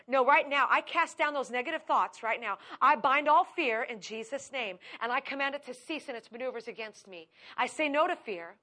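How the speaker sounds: loud, forceful spiritual command; commanding prayer. Retold or imitated. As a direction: order the fear to leave with authority. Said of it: "I sit there and go".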